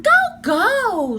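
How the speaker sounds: high loud shooing; impatient. Acted. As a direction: shoo him along. Annie shoos him.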